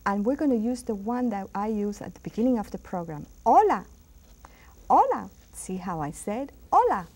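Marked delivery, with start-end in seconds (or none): 3.5-7.1 "Hola" begun on the vowel, no H sound; silent H. Shown as a demonstration. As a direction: say "Hola" with the H dropped. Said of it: "No H sound".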